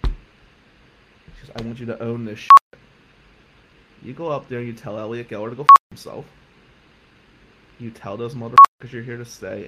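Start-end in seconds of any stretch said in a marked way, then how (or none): 1.5-9.7 much louder, hammering every order; furious shout. Retold or imitated. Coach yelling at student to face the team, furious shout. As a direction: bellow it like a battle command.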